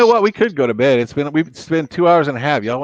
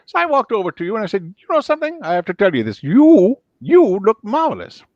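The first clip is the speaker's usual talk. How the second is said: higher, suave showbiz voice; Billy Crystal impression; 7 semitones higher, 3 dB louder than usual. Billy Crystal flattering a stranger, higher and suave. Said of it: "I do his, uh, voice".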